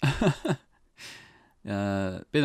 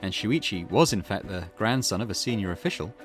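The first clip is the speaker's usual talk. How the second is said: measured, formal reading of a report; case file read-aloud; 7 dB louder than usual. Acted. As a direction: read out the facts like a case summary.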